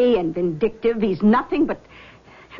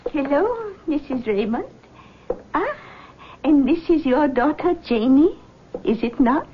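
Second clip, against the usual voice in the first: lightly voiced mystic, higher pitch; seance medium; 5 semitones higher than usual. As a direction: greet them like a gracious clairvoyant. Medium greets visitors, higher voice.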